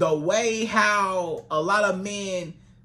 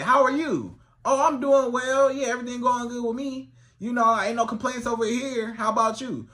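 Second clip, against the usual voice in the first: enthusiastic reply; 4 semitones higher than usual. Shown as a demonstration. Woman answers the man's greeting with lively enthusiasm. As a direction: sound glad he asked. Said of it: "give it a little more enthusiasm".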